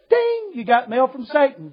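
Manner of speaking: slow, drawn-out computer announcement parody; mock email alert. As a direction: announce it slowly like a sinister mail alert. Mock email alert from devil lady.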